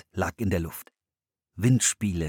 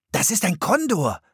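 higher, firm announcement of Kondor; excited statement; 10 semitones higher, 4 dB louder than usual. A narrator's reading. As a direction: say Kondor falling, sure of it. Philipp erkennt den Vogel. („Kondor“ bestimmt und fallend)

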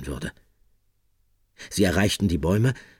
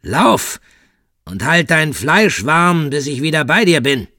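much higher, louder snarling command; hissed command; 9 semitones higher, 9 dB louder than usual. Acted. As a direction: spit it at her like a predator. Michele's snarled command continues.

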